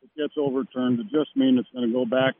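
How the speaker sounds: faint, off-mic caller; phone held away. Real, not acted. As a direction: voice fading from the phone. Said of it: "talk into the phone. We're losing you".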